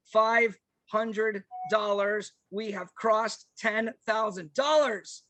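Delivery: slow, drawn-out big reveal; triumphant announcement. Real, not acted. Host to donors announcing the goal was crossed, slow and triumphant. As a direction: stretch every word like a prize reveal.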